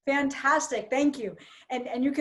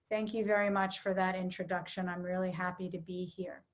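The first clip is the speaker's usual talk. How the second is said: much lower and softer, words and tone at odds; unhappy, flat tone; 6 semitones lower, 8 dB quieter than usual. Shown as a demonstration. Trainer shows the class a mismatched tone, low and joyless. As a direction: say you're happy while sounding anything but. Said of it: "Do I seem happy to be here?".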